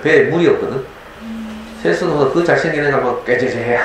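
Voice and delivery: ordinary delivery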